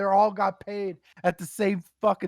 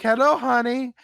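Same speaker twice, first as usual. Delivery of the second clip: mock sleazy greeting; 5 semitones higher, 3 dB louder than usual. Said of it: "'cause they always say honey or baby".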